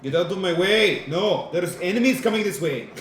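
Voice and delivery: loud, gruff brute roar; brute shouting. Acted. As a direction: shove through bellowing. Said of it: "Didn't prepare these voices well".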